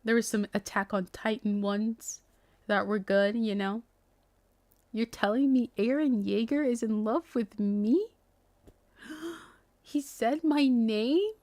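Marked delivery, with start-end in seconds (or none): 4.9-11.3 fangirl gasp. Pretend. Acting out fangirl disbelief.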